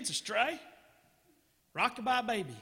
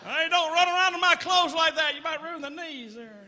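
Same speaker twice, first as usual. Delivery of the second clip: put-on higher-pitched kid's warning; lightly voiced kid telling someone off; scolding rich kid; 5 semitones higher, 3 dB louder than usual. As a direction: call out a mock warning.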